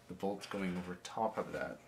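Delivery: talking around a toothpick; words through a toothpick in the mouth. Real, not acted. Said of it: "Sorry, I have a toothpick in my mouth".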